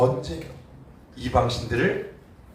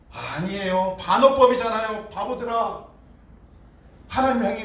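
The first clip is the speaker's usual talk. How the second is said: ordinary talk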